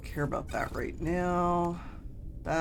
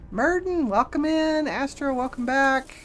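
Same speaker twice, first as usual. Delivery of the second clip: excited; 9 semitones higher, 5 dB louder than usual. Real, not acted. Greeting chatters.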